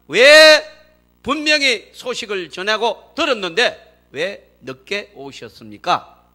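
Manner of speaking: rising, loud protest at the late arrival; reproachful complaint. Retold or imitated. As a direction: demand why he came so late. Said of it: "이렇게 원망을 하는 거예요".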